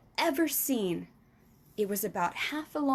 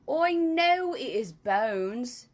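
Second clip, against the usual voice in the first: slow, loud giant; 5 dB louder, much slower than usual. Acted. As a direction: answer slowly like a patient giant. Giant answers slowly.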